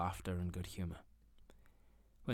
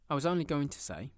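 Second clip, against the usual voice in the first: jolly nephew; 7 semitones higher, 6 dB louder than usual. Acted. Nephew resumes over laughter.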